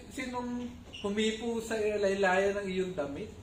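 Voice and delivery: whiny over-the-top disciple griping about the crowd; exaggerated disciples. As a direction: ham up the fed-up disciples pleading with the Lord. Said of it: "medyo exaggerated ako, magkwento".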